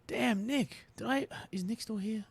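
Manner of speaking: whisper. Real, not acted. Missing viewer, muttered aside.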